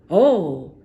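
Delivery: loud surprised oh; sentry surprised. Acted. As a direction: exclaim it. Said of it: "said the sentry".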